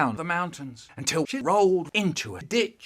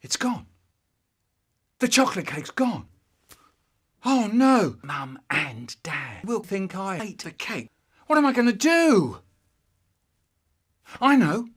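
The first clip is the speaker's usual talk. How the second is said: high, loud rising panic; frantic, caught out; panicked child; 5 semitones higher, 6 dB louder than usual. Acted. Child finds cake gone, panics.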